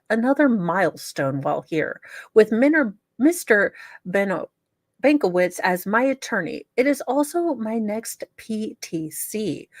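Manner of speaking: lightly voiced prim letter writer, self-righteous; reading the letter in character. Host reads inmate's letter to viewers, a lightly voiced prim letter writer. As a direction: read it like the wronged letter writer, only a touch put-on.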